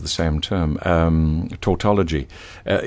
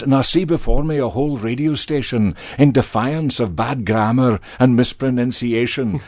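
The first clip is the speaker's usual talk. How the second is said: Braveheart rallying speech; 4 semitones higher than usual. Acted. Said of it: "a la Braveheart".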